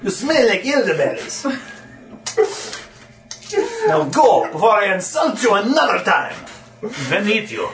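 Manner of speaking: a hammed-up creepy voice behind a door; a lightly voiced horror lurking behind a door; strange horrific voice. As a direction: sound strange and monstrous, half laughing. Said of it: "strange, horrific sounding voice".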